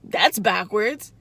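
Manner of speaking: slow, dragged-out mock reply; slow mocking imitation of the client; his reply. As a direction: stretch it out slowly, mocking him. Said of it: "And he was like".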